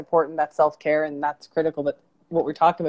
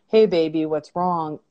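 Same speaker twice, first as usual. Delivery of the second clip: compassionate voice; slower than usual. Retold or imitated. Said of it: "that voice of compassion".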